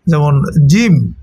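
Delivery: drawn-out জিম with a hard j; teacher stretching out জিম; slow demo of জিম. Shown as a demonstration. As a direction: say জিম slowly, hard j sound. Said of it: "জিম শব্দটা খুব শক্ত একটা শব্দ".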